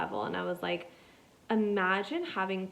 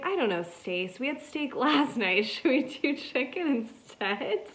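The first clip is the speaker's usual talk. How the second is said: higher, goofy husband voice with a laugh; mock husband reply; 6 semitones higher than usual. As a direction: answer the wife in a silly high put-on voice. Voicing Stacy the husband.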